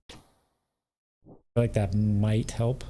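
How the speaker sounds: slow, grand knightly proclamation; hint of a solemn knight; stagey fake archaic declaiming. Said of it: "Who needs music when you have Gold Knight voice?".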